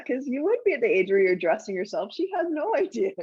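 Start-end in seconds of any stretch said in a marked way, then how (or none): 2.1-3.1 high, laughing through the words. Real, not acted. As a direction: chuckle as you say it.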